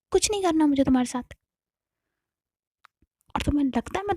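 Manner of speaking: put-on furious fast refusal thrown at the girlfriend; rising angry rant. Navya refusing in anger.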